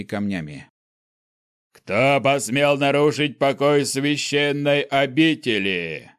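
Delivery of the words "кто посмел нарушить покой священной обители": booming voice. Acted. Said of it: "Прогремел голос одного из стражей".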